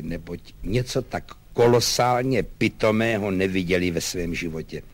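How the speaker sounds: measured reproach with long pauses; exasperated lieutenant. Acted. Lieutenant lectures his servant.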